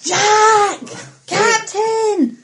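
calling out. Acted. Calling to missing crewmen.

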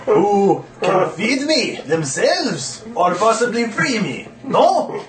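a hammed-up creepy voice behind a door; a lightly voiced horror lurking behind a door; strange horrific voice. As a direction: sound strange and monstrous, half laughing. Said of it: "strange, horrific sounding voice".

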